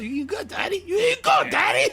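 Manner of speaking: hype shout. Acted. Hyping himself up over food.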